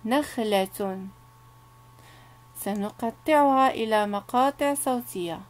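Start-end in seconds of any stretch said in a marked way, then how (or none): 0.0-1.1 نخلة said very slowly and clearly; slow teacher model; slow careful word. Shown as a demonstration. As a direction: draw out نخلة for the children. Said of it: "لاحظوا معي جيدا".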